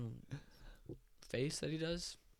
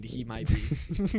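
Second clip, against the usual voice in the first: slow drawn-out; 7 dB louder, much slower than usual. Acted. Drawn-out mock agreement.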